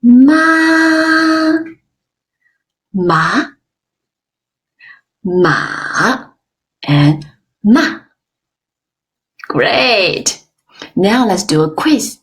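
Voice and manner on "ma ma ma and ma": ma in first, second, third and fourth tones one after another. Shown as a demonstration. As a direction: run ma through all four Mandarin tones. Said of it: "let's practice four tones together".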